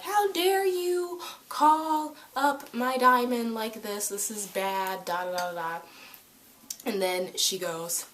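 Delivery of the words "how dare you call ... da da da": high, slow, prissy scolding voice; high affected outrage, drawn out; snooty Yellow Pearl. Retold or imitated. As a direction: put on a haughty servant tone and drag it out.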